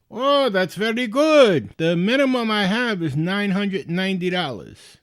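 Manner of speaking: put-on high, loud, delighted Indian-accented caller. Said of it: "he's got a very thick Indian accent".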